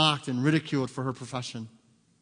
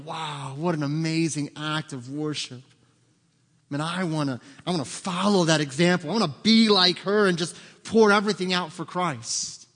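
admiring gush; 2 semitones higher, 4 dB louder than usual. Retold or imitated. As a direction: voice rising and louder, inspired. Acting out an admiring worshipper.

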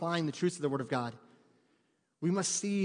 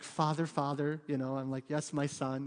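mock lovely; 3 semitones lower than usual. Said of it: "speaking very lovely".

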